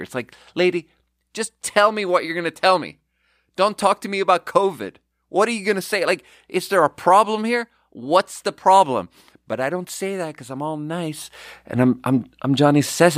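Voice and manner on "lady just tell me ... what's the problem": higher, impatient mock outburst; exasperated. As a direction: get to the point already, lady. Exasperated inner rant at customer.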